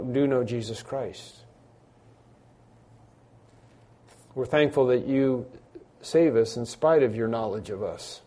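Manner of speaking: measured prayer with long pauses; congregational prayer. Real, not acted. Pastor leading the church in thanks to the Father, solemn prayer. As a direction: pray aloud reverently, phrase by phrase.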